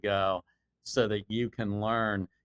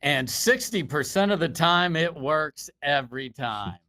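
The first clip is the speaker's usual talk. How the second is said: big booming sports commentator call; lightly voiced broadcast announcer; announcer voice; 3 semitones higher than usual. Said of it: "You gotta do your announcer voice".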